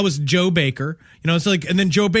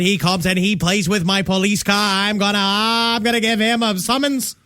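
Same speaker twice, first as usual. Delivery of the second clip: bad Boston accent. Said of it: "Is that good Boston".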